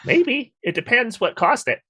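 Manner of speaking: high, whiny character voice; trembling whiny yelps. Acted. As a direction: yelp the words nervously.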